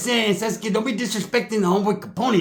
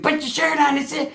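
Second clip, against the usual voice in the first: mock scream; 9 semitones higher than usual. Cousin screams at Ricky while fighting, high mock yell. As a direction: shriek it high mid-fight. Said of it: "he's screaming".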